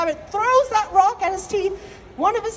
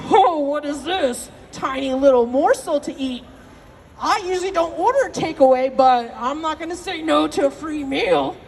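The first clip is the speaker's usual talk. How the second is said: crocodile voice. Acted. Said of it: "not only cold-blooded, but clever".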